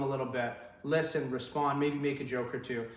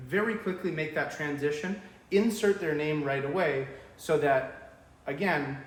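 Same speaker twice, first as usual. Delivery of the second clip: ordinary talk, nothing marked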